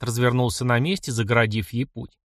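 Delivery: usual speaking voice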